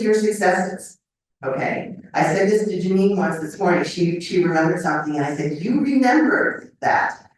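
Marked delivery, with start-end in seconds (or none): 5.6-7.3 higher and slow, cheering her on; delighted praise. Retold or imitated. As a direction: make her feel proud of remembering. Praising a friend who remembered.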